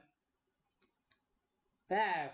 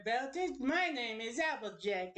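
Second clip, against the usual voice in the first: put-on country accent slipping away; half-hearted country accent at usual pitch; lost Applejack accent. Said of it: "I lost the accent".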